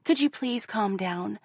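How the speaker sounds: lightly voiced gentle coaxing; mock calm pleading. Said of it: "they tell me".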